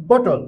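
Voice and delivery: বটল with the vowel sounded clearly; বটল said the way Bangla speakers say it, full vowel between T and L; Bangla-style pronunciation. Shown as a demonstration. Teacher showing the common wrong way, full vowel in বটল. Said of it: "আমরা বাঙালিরা যখন উচ্চারণ তখন বলি বটল".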